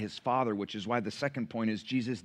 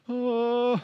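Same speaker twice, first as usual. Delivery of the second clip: stunned "oh"; 10 semitones higher, 3 dB louder than usual. Retold or imitated. Stunned reaction to being seen through.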